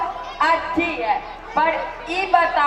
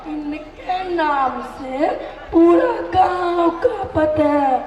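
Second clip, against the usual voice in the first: slow bumbling yokel; 2 semitones lower, slower than usual. Acted. Son speaks slow, laughing.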